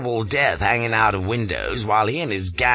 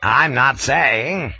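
louder, higher indignant lecture; 6 semitones higher, 6 dB louder, slower than usual. A narrator's reading. Colonel defending the Maharani to Flashman, indignant. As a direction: defend her honour, offended.

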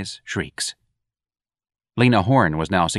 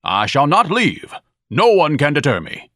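defiant; 7 semitones higher, 4 dB louder than usual. Acted. Ignatius refuses defiantly.

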